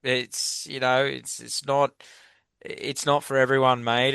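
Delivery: real emotion welling up, pushing through; host moved while thanking a guest; getting emotional. Real, not acted. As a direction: let the feeling rise as you push on. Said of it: "I'm actually gonna get emotional now".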